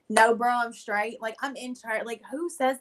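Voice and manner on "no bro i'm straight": slow mock repeat. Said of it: "What did I just say?".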